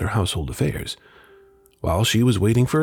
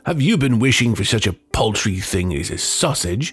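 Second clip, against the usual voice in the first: angry scolding. Acted. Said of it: "who became angry".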